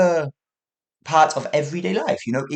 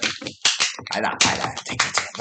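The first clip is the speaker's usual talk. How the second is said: corrected ticking; 4 semitones lower, slower than usual. Shown as a demonstration. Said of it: "Not like that, it'd be more like".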